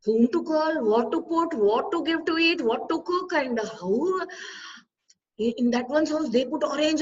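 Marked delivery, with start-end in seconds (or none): 0.0-4.3 higher-pitched anxious checklist, mildly acted; tense fretting. Ladies worrying three days before puja at home, tense. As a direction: mimic a hostess fussing over each task. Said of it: "the tension will begin".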